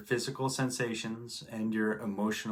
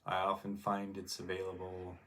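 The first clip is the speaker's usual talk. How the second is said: guided meditation; 5 dB quieter than usual. Real, not acted. Teacher guiding listeners to relax and turn inward, calm meditation voice. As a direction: ease them gently into relaxation, leaving space between phrases.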